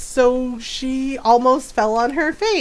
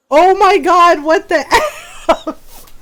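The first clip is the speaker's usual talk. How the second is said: mock panic; 2 semitones higher, 5 dB louder than usual. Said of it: "her facial expression was like".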